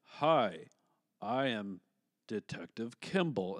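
slow, measured, dull American delivery; Arnold with boring American accent. Acted. Joking about Arnold losing his accent, mock-boring. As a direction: lightly imitate a boring, all-American Arnold. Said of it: "it just made him very boring".

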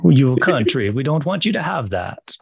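put-on Russian accent sliding into Dracula; mock Russian, Transylvanian-sounding accent. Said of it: "my Russian accent is more like my Dracula accent".

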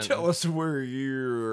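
slow, low cop harassing a suspect; tense gunpoint commands. Acted. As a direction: drag it out like an interrogating cop. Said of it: "Why do you sound like you're a cop harassing me?".

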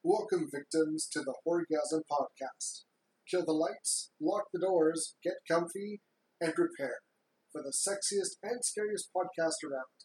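slow, spooky welcoming host; lightly hammed horror host.

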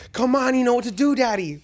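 teasing sing-song bait, voice lifted high; mock flirty tweaker. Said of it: "She came in there".

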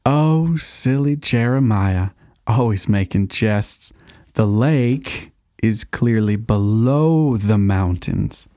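slow, genteel fake amusement; prim slow chiding. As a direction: tut at him politely. Host feigns polite amusement.

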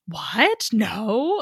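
imitated taken-aback denial; mock startled denial. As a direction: act out her startled protest. Acting out her startled denial.

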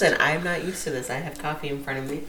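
mid-yawn, tired and quiet. Real, not acted. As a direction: talk through a yawn. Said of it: "You're, you're yawning on the podcast?".

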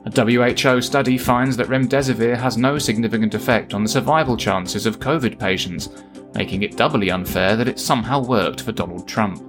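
measured satirical newsreader delivery; news read. Acted. Host signs off the show with spoof headlines, news read.

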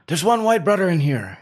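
high, loud attempt at a Jamaican accent; a shouted Jamaican accent. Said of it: "cannot do a Jamaican accent".

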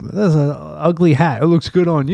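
movie quote. Retold or imitated. Quoting Ted Knight scene.

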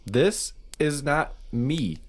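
lightly voiced panicked man; distressed cadaver. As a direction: beg to be believed. Cadaver role.

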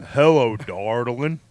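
low, crooning country charmer; voice of an old country singer. Retold or imitated. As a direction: croon like an old country singer. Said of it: "sound like a country singer".

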